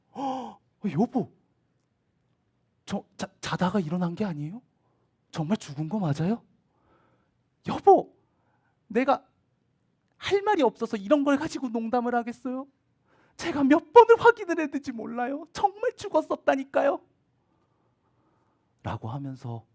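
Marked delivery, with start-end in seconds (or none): 0.1-6.4 astonished husband. Acted. Jairus amazed asks his wife. 7.7-17.0 high, loud, insistent wife's voice; excited wife. Acted. Wife insisting to her husband the girl was really dead, high and loud.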